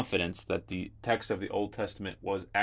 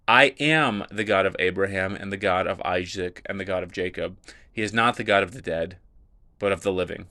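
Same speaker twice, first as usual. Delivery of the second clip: reading the passage out, a bit louder and declaimed; scripture reading; 4 dB louder than usual. Acted. Teacher reads Jesus answering the Sadducees, declaimed scripture. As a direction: read it like the Gospel in a service.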